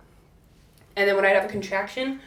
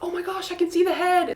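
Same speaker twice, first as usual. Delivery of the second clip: higher, excited gasp at seeing the head; excited husband; 9 semitones higher, faster than usual. Retold or imitated. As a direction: imitate his thrill. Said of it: "Will got really excited".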